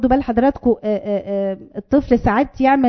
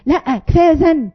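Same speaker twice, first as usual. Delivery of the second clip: angry parent yelling; 4 semitones higher than usual. Retold or imitated. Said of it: "قعد يزعق".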